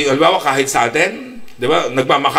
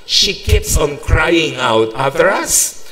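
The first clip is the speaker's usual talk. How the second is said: mock disciples; 2 semitones higher, much slower than usual. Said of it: "sabi niya".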